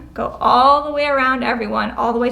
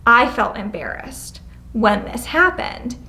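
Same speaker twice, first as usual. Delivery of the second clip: slow calm I-statement; slower than usual. Shown as a demonstration. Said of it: "So, like".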